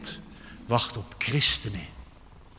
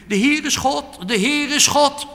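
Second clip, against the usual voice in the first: much higher, louder acclamation; crowd's cry; 14 semitones higher, 9 dB louder than usual. Retold or imitated. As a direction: call it out like the Israelites on Carmel. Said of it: "Israëlieten riepen".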